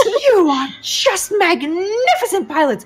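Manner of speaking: high, theatrical gushing praise; overwhelmed, very high-pitched delight; Yaroslava, gushing. Acted. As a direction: heap praise in a high, overjoyed voice. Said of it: "And she says".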